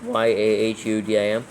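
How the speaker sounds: Y A H U D I M, each letter said separately; spelling out letters. Shown as a demonstration. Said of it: "How do you spell Yahudim?".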